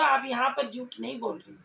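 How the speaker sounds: normal talking voice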